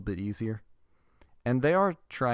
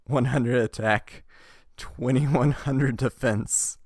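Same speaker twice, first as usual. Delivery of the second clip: slow, louder, laughing readout; 4 semitones higher, 6 dB louder, slower than usual. Real, not acted. Host reads silly card stats, laughing. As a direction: stretch the numbers out through laughter. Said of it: "I'm laughing".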